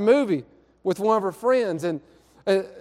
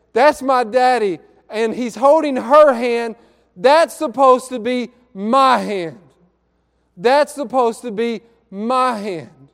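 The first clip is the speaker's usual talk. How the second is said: put-on slow, emphatic retelling of a child's hurt; drawn-out, pained insistence; retold hurt protest; slower than usual. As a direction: lean hard on each phrase, voicing a wounded daughter without crying. Hurt crying daughter voiced in story.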